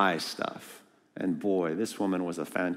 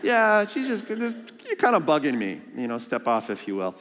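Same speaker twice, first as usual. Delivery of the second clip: annoyed; 5 semitones higher than usual. Retold or imitated. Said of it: "It's like".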